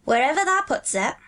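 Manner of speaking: lilting, neighbourly counsel; friendly advice. A narrator's reading. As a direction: advise a small friend kindly. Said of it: "Dickon's tone was one of friendly advice".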